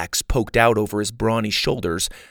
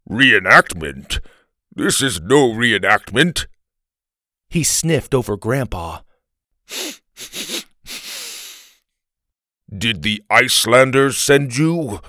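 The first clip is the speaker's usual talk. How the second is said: indignant Viking; 3 dB louder than usual. Acted. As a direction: challenge him as an offended Viking. Indignant Viking confronts Grandpa.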